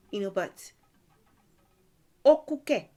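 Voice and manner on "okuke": loud, high exclamation of disbelief; shocked disbelief. Shown as a demonstration. Teacher showing shock at news of a death, loud and high. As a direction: cry it out like you can't believe it. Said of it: "I don't even believe that".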